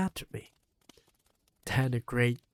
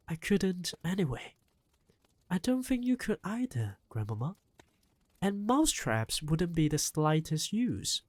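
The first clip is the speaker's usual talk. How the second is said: put-on boy's voice. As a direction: speak as the young grandson. Boy voiced in story.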